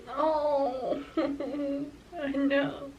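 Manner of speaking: a teary laugh that catches; real tearful laugh; laughing through tears. Real, not acted. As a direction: let a small laugh break through crying. Breaks while recalling grandma.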